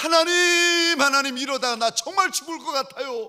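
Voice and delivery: desperate, crying-out voice.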